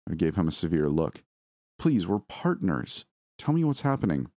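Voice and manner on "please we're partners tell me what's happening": earnest plea. Acted. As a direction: implore your partner to open up. Wife begs husband to open up.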